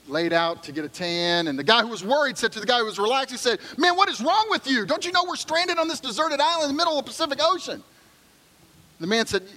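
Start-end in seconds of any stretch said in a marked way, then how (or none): 3.8-7.8 high, frantic panicked voice; a castaway losing his cool; shrill panic on the beach; panicked man. Acted. Worried man panics at relaxed one.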